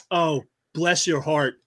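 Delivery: lightly imitated slow sympathy; imitated Southern lady. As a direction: slowly mimic a condescending Southern lady. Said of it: "She goes".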